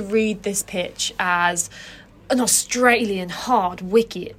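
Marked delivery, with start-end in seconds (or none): 2.3-4.4 slow, badly faked Australian accent; hammy attempt at an Australian accent, drawn out. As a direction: have a poor go at sounding Australian. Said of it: "that was a really bad Australian accent".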